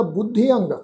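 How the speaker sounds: ਬੁੱਧੀ ਅੰਗ with a nasal ending. Shown as a demonstration. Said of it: "ਲੱਗ ਕੇ ਉਚਾਰਨ ਹੋਣੀ ਆ".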